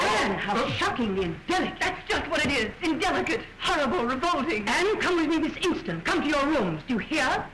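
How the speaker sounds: sharp, shocked motherly rebuke; indignant scolding. Acted. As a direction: scold her like an outraged queen. Queen scolds her daughter.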